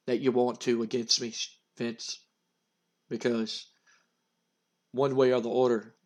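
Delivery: a hint of a sinister undead threat; menacing Undertaker. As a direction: Undertaker choking Vince, low ominous threat. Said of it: "and he goes".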